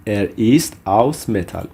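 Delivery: slow, measured German for learners; slow model phrase. Shown as a demonstration. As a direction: model the phrase slowly, word by word. Teacher repeats German example sentence.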